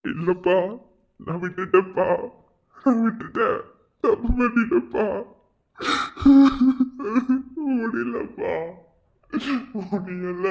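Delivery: choked, tearful pleading; crying. Acted. Son breaking down in tears before his father. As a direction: sob it out to your father.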